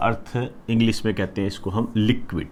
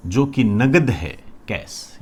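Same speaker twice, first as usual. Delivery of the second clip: slow, weighty जो कि नगद है, then कैश dropped to a breath; emphasized; slower than usual. Shown as a demonstration. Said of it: "जोर दे के इसलिए बोल रहा हूँ". (नगद पर ज़ोर, धीमे और भारी स्वर में)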